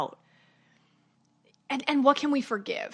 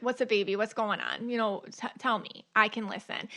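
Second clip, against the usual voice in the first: light, softly coaxing mother voice; mildly tender, as if calming a kid; soothing a child; 3 dB quieter than usual. Retold or imitated. Mother comforting her kids, lightly tender. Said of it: "I talk to my kids".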